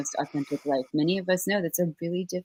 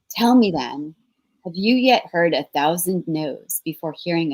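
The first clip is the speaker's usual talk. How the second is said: dramatic reading; 4 dB louder than usual. Acted. Host reads the mentor's passage to the audience, earnest. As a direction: read it like a sacred charge.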